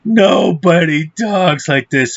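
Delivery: hammed-up, throat-straining mimicry; mocking the actor's voice. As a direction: draw it out in mock movie-tough-guy style. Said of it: "I can't do that voice".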